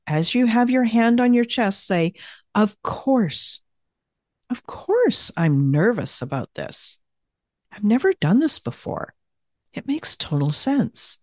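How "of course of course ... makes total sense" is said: comforting tone. Shown as a demonstration. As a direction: comfort a nervous friend. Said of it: "So feel the tone of my voice".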